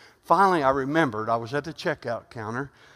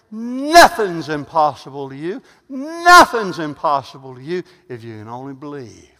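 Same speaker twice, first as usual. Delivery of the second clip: tearful preaching; 9 dB louder than usual. Real, not acted. Emotional exhortation.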